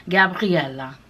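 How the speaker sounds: mock how foreigners make the name Gabriella sound crazy; imitating foreigners. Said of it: "They're like".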